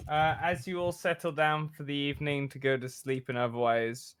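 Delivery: measured cinematic narration; game master's scene setting. A narrator's reading. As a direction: paint the scene for the players.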